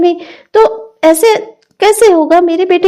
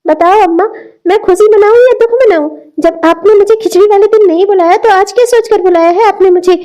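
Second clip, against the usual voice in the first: angry. Acted. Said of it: "इतने गुस्से में क्यों है".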